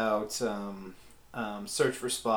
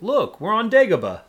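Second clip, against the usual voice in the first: high, loud mock wonder; joking announcement; 8 semitones higher, 7 dB louder than usual. Retelling a joke made during the movie, raised mock-excited voice. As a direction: call it out as a gag. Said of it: "I remember making a joke".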